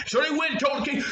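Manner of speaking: ordinary delivery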